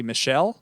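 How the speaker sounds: "Michelle" said as mee-SHELL; tentative French pronunciation. Shown as a demonstration. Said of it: "do not know how to pronounce his name".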